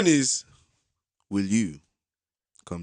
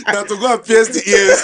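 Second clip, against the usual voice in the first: put-on Jamaican accent; 2 semitones higher, slower than usual. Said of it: "we'll do Jamaican accent".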